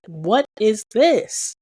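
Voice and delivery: drawn-out disbelief. Retold or imitated. Recalling the wrong corset, slow disbelief. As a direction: stretch it out in disbelief.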